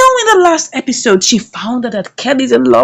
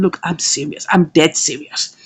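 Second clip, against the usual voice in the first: quiet earnest; 8 semitones lower, 5 dB quieter than usual. Retold or imitated. Man insists he is serious.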